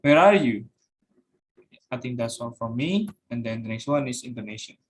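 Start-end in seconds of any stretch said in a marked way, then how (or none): 0.0-0.7 louder, pitch arching up on the question; high pitch example. Shown as a demonstration. Student presenter demonstrating high pitch, louder raised question. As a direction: ring it out, rising then falling. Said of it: "For high example is".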